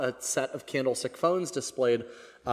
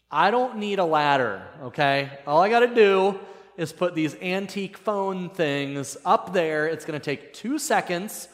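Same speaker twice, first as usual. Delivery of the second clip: higher, louder acted protest; defensive insistence; 4 semitones higher, 3 dB louder than usual. Husband refusing his wife's ladder advice, defensive insistence. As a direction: argue back, brushing the warning aside.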